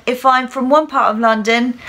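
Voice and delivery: heavy put-on Cockney London accent. Shown as a demonstration. Teacher showing one part of London, heavy Cockney accent. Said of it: "I went from the heavier Cockney London accent".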